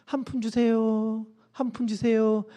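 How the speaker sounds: soft, slow, drawn-out begging; small beggar voice. Acted. Beggar asks passers-by for a coin in a small voice. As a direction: plead quietly and slowly. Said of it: "늘 목소리 작게 내면서".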